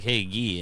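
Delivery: Guy said as French "gee", hard g; French pronunciation. Retold or imitated. Greeting a guy at work by the French name, French pronunciation of Guy. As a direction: greet with Guy rhyming with "key". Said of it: "And they were like".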